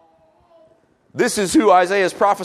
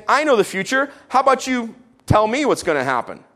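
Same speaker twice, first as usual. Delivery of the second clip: higher, teasing challenge; mocking God; 5 semitones higher than usual. God mocking the proud hearer, teasing. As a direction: taunt the listener with it. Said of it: "he's mocking you".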